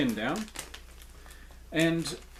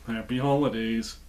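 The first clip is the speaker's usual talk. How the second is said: head cold voice; 3 semitones lower than usual. Real, not acted. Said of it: "with such a head cold type voice at the end".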